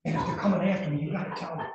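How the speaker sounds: desperate pleading. Retold or imitated. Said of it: "he comes right out to the car like".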